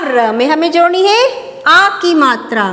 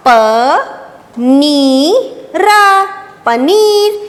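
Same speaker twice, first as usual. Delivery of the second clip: sounding out words; much slower than usual. Shown as a demonstration. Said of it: "अब इसको पढ़ के देखते हैं".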